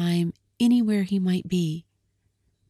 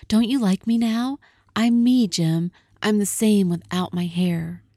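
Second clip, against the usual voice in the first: anxious plea; 3 semitones higher, 3 dB louder than usual. Acted. Della pleads, voice up.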